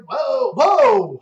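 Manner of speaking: surprised whoa. Real, not acted. Reacting to super chat.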